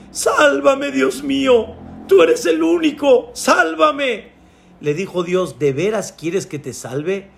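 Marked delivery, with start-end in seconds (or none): 0.1-4.3 high, drawn-out begging cry; desperate pleading. Acted. Climber begs God for rescue, desperate cry. 5.6-7.3 softly voiced, unhurried God; God's calm voice. God questions the desperate climber, quiet and calm.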